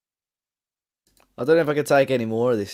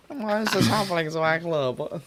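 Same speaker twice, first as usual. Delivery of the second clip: a weaker copy of the whiny lament, slightly higher; attempted Bib impression; 4 semitones higher than usual. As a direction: try the fan's wail and fall short. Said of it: "leave the Bib impressions to me".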